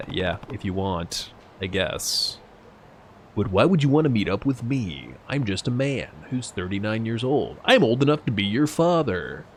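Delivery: a hint of a modest tough guy; gruff older man. Voicing Kiryu's dialogue.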